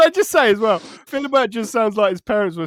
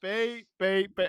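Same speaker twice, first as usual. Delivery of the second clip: mock censor beep; 6 dB quieter, slower than usual. Shown as a demonstration. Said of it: "when I censor shit".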